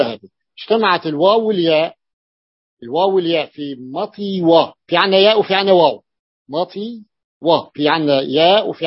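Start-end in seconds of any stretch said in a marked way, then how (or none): 3.9-4.7 "مطي و" in two parts, the و set apart; split into syllables. Shown as a demonstration. Teacher showing students the underlying form, split into syllables. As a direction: break "مطي و" before a clearly sounded و. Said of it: "في الأصل هي مطي و".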